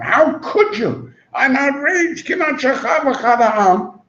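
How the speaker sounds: a mild mock yell of a scandalized king. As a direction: act outraged at Avram. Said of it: "when he yells at Avram".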